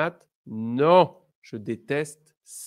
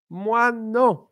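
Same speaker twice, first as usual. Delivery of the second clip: emphatic; 9 semitones higher, 7 dB louder than usual. Shown as a demonstration. Emphatic negative reply.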